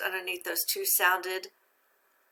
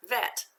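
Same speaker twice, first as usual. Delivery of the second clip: "vet" as one isolated, higher syllable; a separate, raised "vet"; syllable read-out; 4 semitones higher than usual. Shown as a demonstration. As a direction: sound out "vet" on its own. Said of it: "Second one".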